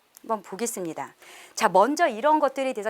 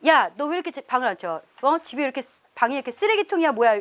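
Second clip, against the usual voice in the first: scolding parent; 3 semitones higher than usual. Shown as a demonstration. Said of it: "막 이렇게 이야기하는 거".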